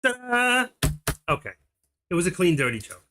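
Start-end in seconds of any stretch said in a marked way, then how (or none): 0.0-0.7 ta-da flourish. Real, not acted. Finishing the joke.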